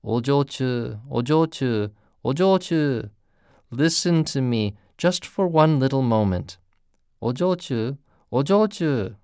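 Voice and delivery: calling her name again and again, coaxing; lightly voiced gentle pleading man. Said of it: "and pleaded".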